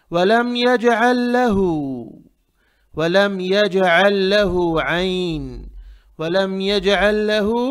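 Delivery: वलम यजअल लहू drawn out slowly, ayn from the throat in यजअल; model throaty ayn. Shown as a demonstration. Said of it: "यहाँ भी आइन है".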